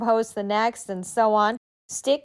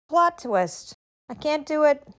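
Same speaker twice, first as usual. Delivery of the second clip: higher, bright and breezy; cheerful shrug; 6 semitones higher than usual. Shown as a demonstration. She models accepting cancelled plans with a breezy shrug. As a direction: toss it off like good news.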